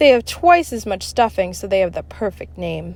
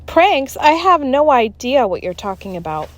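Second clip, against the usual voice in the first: fake innocence; 5 semitones higher, 4 dB louder than usual. Teacher plays innocent.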